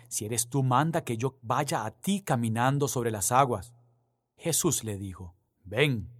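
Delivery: reading the Gospel aloud, measured and solemn; lectura solemne del Evangelio. Acted. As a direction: proclaim it to the congregation. (lectura del Evangelio, pausada y solemne)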